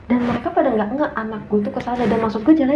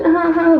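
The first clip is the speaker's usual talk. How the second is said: imitated baby crying; 8 semitones higher, 4 dB louder than usual. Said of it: "kan biasa nangis".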